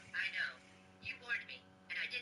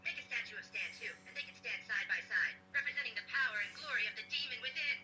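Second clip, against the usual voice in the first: demonic layered voice. Acted. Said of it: "Demon voice".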